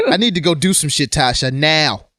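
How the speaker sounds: mock-serious ultimatum, firmly landed; Tommy. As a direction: lightly imitate someone dead serious. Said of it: "in a serious voice and go up an octave".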